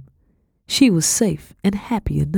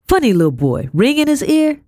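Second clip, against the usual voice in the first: housekeeper asking; 11 semitones higher, 4 dB louder than usual. A narrator's reading. Housekeeper asks about the boy.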